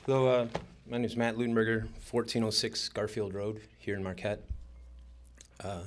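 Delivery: slightly winded, catching breath. Real, not acted. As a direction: speak while still out of breath. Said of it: "I'm catching my breath".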